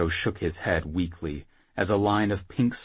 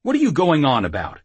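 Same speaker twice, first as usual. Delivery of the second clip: raised, louder confused demand; 6 semitones higher, 6 dB louder, faster than usual. Acted. Jackal grabbing the whoremaster for answers, demanding. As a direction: demand an explanation, voice lifted. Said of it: "he demanded".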